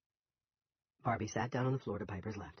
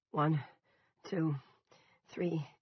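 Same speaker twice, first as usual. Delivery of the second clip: counts higher and louder, then shouts the final word; counting up to a shout; 7 semitones higher, 6 dB louder, much slower than usual. Acted. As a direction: count to three, then yell Wishbone at the top of the voice. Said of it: "When Piper shouted".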